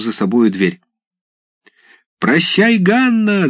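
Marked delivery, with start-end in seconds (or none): 2.2-3.5 high teasing yell of a village lad; high cheeky shout; shouted farewell. A narrator's reading. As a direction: call it out high and mocking. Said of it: "закричал в это время один из парубков".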